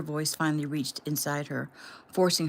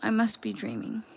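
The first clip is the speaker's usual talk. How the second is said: tearful; 5 semitones higher than usual. Acted. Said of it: "huge sobs welled up".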